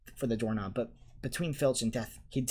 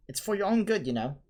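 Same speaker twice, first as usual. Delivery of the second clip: saintly voice; 8 semitones higher, 4 dB louder than usual. A narrator's reading. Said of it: "in a saintly voice".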